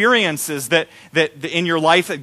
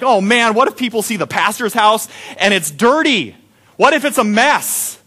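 mock panic; 5 semitones higher than usual. Pastor fretting that people see a messy house, mock panic. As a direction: fret about the dirty house, hammed up. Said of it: "I'm freaking out because I'm like".

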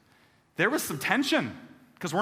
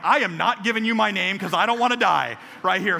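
hammed-up frightened refusal, louder and higher; mock panic; 4 semitones higher, 5 dB louder than usual. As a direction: refuse in a comic scared rush. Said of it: "And I'm like".

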